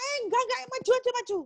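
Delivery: high-pitched acted reassurance; urging on. God tells a wailing believer to keep advancing, urging. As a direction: brush off the whining and push them onward. God waves away complaint, urges forward.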